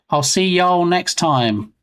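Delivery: slow, lightly put-on Texan accent. Shown as a demonstration. British-sounding streamer joking about his Texan accent, mock Texan. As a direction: stretch it out with a touch of Texan accent. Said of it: "especially when I say things like".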